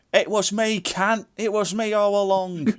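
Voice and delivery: high, gloating ghost voice; hammed-up ghost reveal; mock villain reveal. Ghost reveal acted again.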